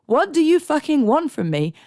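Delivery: high, loud, fed-up mock cry; exasperated outburst. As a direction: throw your hands up in disbelief. Exasperated quote of herself.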